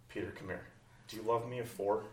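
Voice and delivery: soft, close, gentle ask; tender Jesus. Acted. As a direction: lean in and ask softly. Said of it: "Jesus leans in and says".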